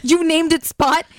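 slow disbelief. Acted. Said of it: "All caps".

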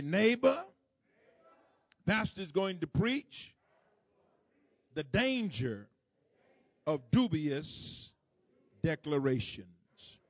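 high, loud voice through a mask. Pretend. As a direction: enunciate hard, as if through a mask. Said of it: "just use your masked voice".

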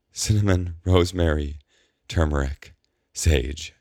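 "Cinnamon, rosemary, turmeric, sage" each word carefully spelled out, falling; over-articulated. A narrator's reading. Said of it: "over-articulating the words between ragged breaths".

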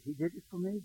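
quiet, choked-up retelling of her words; hushed, on the edge of tears; tearful quote. Retold or imitated. Pastor retelling the weeping woman's realization, softly tearful. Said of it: "she wept".

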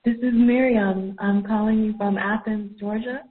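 echoey call through a computer; phone speaker. Real, not acted. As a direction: caller on a poor phone line. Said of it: "I apologize if the call quality is poor".

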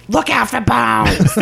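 high, slow warning like a worried mother; alarmed mom voice. Retold or imitated. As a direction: call out a warning like an anxious mom. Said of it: "that impersonation of your mother's a little jarring".

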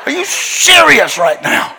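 high, slow, laughing disbelief; imitating his own astonished shout. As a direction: retell it laughing in amazement. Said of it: "and I go".

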